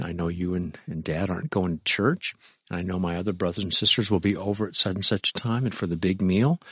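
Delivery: polite request. Retold or imitated. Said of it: "What do you do?".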